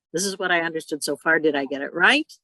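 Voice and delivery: quick statement, then "right" lifts up; checking if you understood; silent question tune. Shown as a demonstration. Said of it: "a question at the end of it that's silent".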